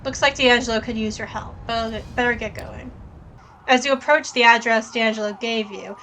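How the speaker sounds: even game-text read; story narration. A narrator's reading. Reads the game text aloud.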